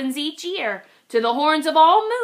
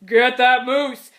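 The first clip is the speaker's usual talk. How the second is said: calling out; 5 dB louder than usual. Acted. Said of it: "heard a voice call".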